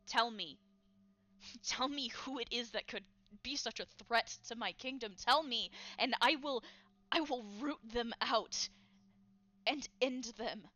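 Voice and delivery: loud, menacing royal demand; a threatening king demanding names, loud. Acted. King threatening his unseen enemies, loud and menacing. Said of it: "You hear the king saying".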